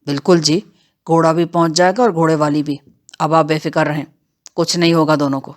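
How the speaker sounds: a hint of oily outlaw courtesy; brazen bandit henchman. Bandit Bakhshu reassures her slyly.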